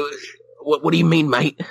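put-on Australian accent. Challenged on his Australian accent, answers in Australian. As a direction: play up a shaky-claimed Australian accent. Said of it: "what happened to your Australian accent?".

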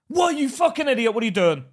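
loud, high outburst at a mate; retold exasperated yell; exasperated telling-off. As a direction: lay into your friend, loud and incredulous. Retells telling off his mate.

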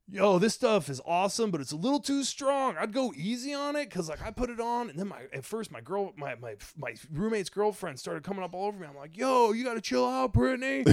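a hint of an eager fake customer raving; fake product review. Posting a fake review online, mock enthusiastic. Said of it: "I put out this narrative where I'm like".

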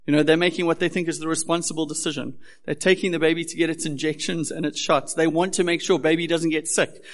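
building from story into a loud call to the congregation; impassioned preaching. Acted. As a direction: preach it hard to the room. Preaching builds to full force.

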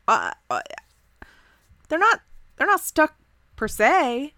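a fidgety guy caught out, hedging; nervous Dave. Acted. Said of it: "wringing his hands a little nervously".

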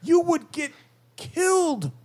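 strained goblin voice. Acted. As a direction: strain it out, pausing for menace. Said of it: "that accent and the drained voice".

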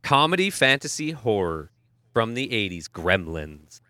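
slow, low movie trailer narrator; movie announcer voice. Pretend. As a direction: sell it like a film trailer. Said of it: "I want your best movie announcer voice".

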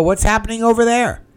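high, loud, surprised question; astonished question. Retold or imitated. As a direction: blurt it out in amazement. Asking the hat seller, astonished.

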